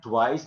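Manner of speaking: TWICE said with a V sound, t-VICE; wrong pronunciation. Shown as a demonstration. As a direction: turn the W in "twice" into a V. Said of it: "It's not twice".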